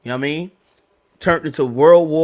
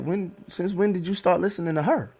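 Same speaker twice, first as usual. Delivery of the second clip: higher, laughing scolding as mom; mimicking his mom; 5 semitones higher, 4 dB quieter than usual. His mother scolding him for listening to the mother, laughing and higher. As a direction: tease him like a mom who can't believe it, chuckling. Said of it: "My mom's like".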